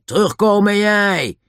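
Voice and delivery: loud, high shouted command; shouting. A narrator's reading. Lou calls the child back from the tunnel, shouting. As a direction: shout it down the tunnel after them. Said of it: "En toen schreeuwde hij".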